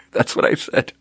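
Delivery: breaking up at your own bluntness; laughing. Real, not acted. Server owning up to refusing the manager, laughing. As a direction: say it through a real laugh.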